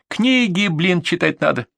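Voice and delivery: exasperated retort, pitched high; раздражённая реплика. Acted. Acted quarrel, snapping back. (раздражённо, с упрёком)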